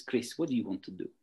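quick, lightly imitated Russian accent; a tutor's blunt question, rough Russian accent; Maria's Russian accent. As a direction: put on a bad Russian accent. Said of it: "in her Russian accent".

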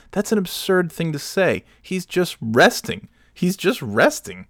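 retold indignation, pitched high; indignant protest. Defending a resting friend to the bartender, indignant.

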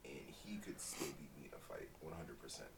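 hushed, breathy aside; half whisper it like a secret; whispering that dad could still win a fight. Real, not acted.

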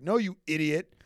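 high, loud mock scolding; exasperated retort. Host retorting to Checo with high, loud exasperation. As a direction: scold him like an idiot. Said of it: "It's like".

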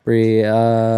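Brie, uh with a trailing extra syllable; uh after everything. Shown as a demonstration. Co-host explains their accent, saying Brie, uh with the added ending. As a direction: let an "uh" follow Brie. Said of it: "I just say, "Uh," after everything".

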